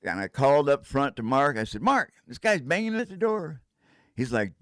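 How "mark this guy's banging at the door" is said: high alarmed voice; urgent, scared report; panicked call. Retold or imitated. Calling Mark in fear about the banging.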